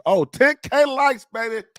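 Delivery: high, slow hyped chant; high slow "ten K likes, baby" sung out; excited sing-song. Pretend. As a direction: sing it up high to pump the viewers. Hyping the like goal.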